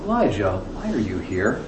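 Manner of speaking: soft, low and hushed, almost breathed; a still, soft voice of God asking Elijah; still small voice. Acted. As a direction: speak it gently as a quiet inner voice. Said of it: "Notice that voice is different".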